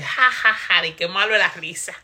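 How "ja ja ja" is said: imitated laugh. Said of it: "Yo me lo imagino riéndose".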